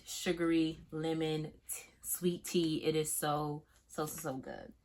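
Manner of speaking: soft breathy whisper over the scent. Real, not acted. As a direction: whisper it like a savored secret.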